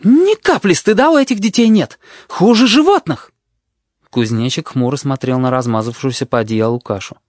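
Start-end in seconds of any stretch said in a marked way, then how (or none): 0.0-3.3 high, loud, furious complaint; angrier nurse. A narrator's reading. Nurse complaining to the tutor, high furious voice. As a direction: spit out her outrage. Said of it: "Сестра сделалась ещё злее".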